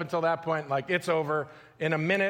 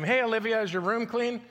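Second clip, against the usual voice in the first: put-on calling to a child; 5 semitones higher than usual. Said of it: "you ask your children".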